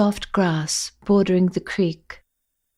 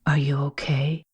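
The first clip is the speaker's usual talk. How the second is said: low, softer gentle question; quiet concern; 6 semitones lower, 6 dB quieter than usual. Acted. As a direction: ask softly, arm around her. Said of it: "says quietly".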